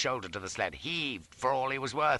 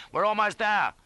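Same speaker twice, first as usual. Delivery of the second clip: high, loud, urgent encouragement; high excited yell; exultant cry; 10 semitones higher, 6 dB louder than usual. A narrator's reading. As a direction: shout it out in triumph. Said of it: "cries I".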